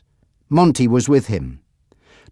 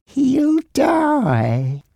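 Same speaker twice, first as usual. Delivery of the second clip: smiling menace; 13 semitones higher than usual. A narrator's reading. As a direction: deliver the threat through a smile. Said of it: "Frankie smiled".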